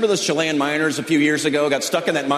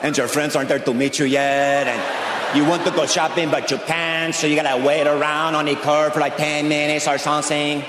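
imitated trapped miner. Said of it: "Do you think they're down that mine going".

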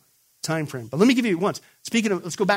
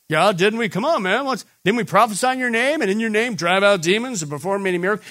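loud, aggrieved 'come on, man' appeal; indignant protest; 4 semitones higher, 7 dB louder than usual. Acted. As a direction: protest like you've been cheated. False believers protest to Jesus.

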